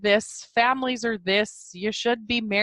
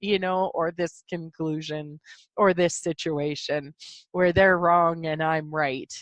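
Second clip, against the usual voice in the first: whiny. Retold or imitated. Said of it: "I will whine and laugh at myself and be like".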